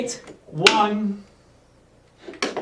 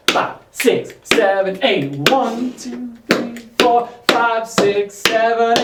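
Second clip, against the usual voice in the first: rhythmic count called to the beat; counting dance beats; 3 semitones higher, much slower than usual. Shown as a demonstration. Counting beats for full combination.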